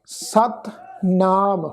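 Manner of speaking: ਸਤਨਾਮ very slowly, as sat, then naam; recitation demo. Shown as a demonstration. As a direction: split and stretch ਸਤਨਾਮ. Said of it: "ਇਸ ਤੋਂ ਅੱਗੇ ਪਾਠ ਆ ਜੀ". (ਸਤਨਾਮ ਦਾ ਬਹੁਤ ਹੌਲੀ ਪਾਠ)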